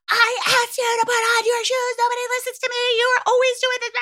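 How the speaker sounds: very high, fast whiny parent complaint; mock exasperated parent. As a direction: whine like the fed-up parent at the end of her rope. Parent finally losing it.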